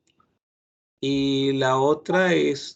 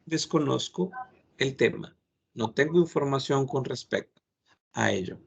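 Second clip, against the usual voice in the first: polite admission. Shown as a demonstration. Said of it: "o en todo caso dices".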